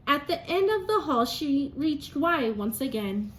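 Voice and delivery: lively storybook narration; reading to children. A narrator's reading. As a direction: read it like story time for a class. Teacher reads picture book aloud.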